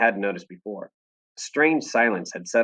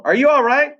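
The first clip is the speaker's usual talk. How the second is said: high, louder frantic call; worried yell; 7 dB louder than usual. Acted. Mama yelling to Daisy, high and frantic. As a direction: cry out in fear for her child. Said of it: "she yelled".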